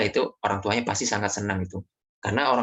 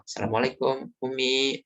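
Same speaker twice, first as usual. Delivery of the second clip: polite asking; 3 semitones higher than usual. Shown as a demonstration. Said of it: "Nah, tanyakan dulu".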